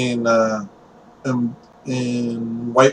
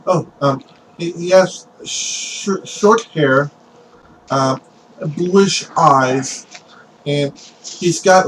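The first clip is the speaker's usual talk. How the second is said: put-on hesitant boy giving a description; acted nervous witness, piecing it together; nervous stammer; 3 semitones higher, slower than usual. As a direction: falter and restart with long fillers. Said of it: "he's very nervous when speaking to Stone".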